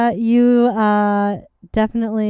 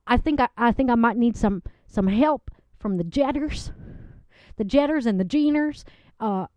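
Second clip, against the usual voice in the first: a sweet country woman gushing about her date; a lovelorn Southern guest giggling through her story; Southern lady Loretta. Acted.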